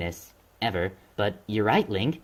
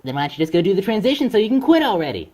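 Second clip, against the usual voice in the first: angry; 7 semitones higher, 5 dB louder than usual. Acted. Quarrel with narrator.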